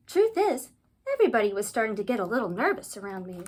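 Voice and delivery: lively read-aloud storyteller; children's story narration. A narrator's reading. Ghoul narrator recalling trouble at school, animated storytelling. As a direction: read it out to a room of kids.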